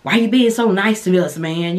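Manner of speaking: mock wary woman in the movie; incredulous movie heroine. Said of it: "she was like".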